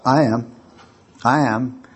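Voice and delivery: low, subdued admission with a real catch of feeling; a little choked up. Real, not acted. Lecturer admitting to the audience the poem moved her, a little choked up. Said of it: "You getting a little choked up?".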